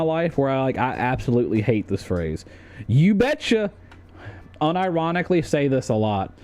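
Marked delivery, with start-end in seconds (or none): 2.9-3.7 high, chirpy Midwest twang; Midwest folksy voice. Pretend. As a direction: sing it out like a friendly Minnesotan. His own people's phrase, performed.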